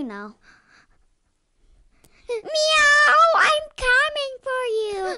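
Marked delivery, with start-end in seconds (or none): 2.3-5.2 high cat meow then threat; menacing chaser voice. Pretend. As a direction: play the hunting villain. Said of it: "trying to be that the guy who's chasing you".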